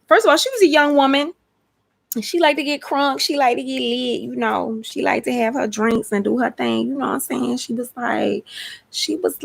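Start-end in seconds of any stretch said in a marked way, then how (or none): 2.1-7.6 put-on Texas accent. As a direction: imitate a young Texan woman's accent. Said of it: "Can I do her accent?".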